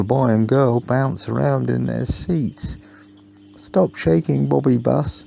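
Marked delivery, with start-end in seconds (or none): 3.6-5.2 put-on a raised, higher calling-out voice from the children. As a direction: call it out to the bus like playful kids. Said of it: "called the children".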